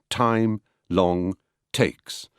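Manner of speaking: "time", "long", "takes", each set apart with a little push; weight each of "time", "long", "takes" separately; pushed important words. Shown as a demonstration. Lecturer listing the important words, "time", "long", "takes" each stressed. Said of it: "give a little push".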